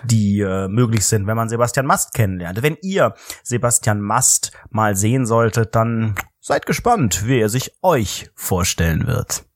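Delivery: slow, announcing presenter tone; host voice. Acted. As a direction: present it like a TV host teasing the audience. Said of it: "in so einem moderativen Duktus".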